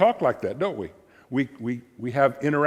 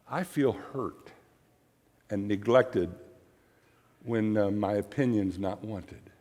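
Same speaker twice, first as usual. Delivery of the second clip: soft I statement; 5 semitones lower, 5 dB quieter than usual. Shown as a demonstration. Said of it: "in the right tone, for the right reason".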